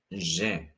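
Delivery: juin with nasal final vowel, zhwan; juin, nasalize the ending; French juin. Shown as a demonstration. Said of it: "be very careful here".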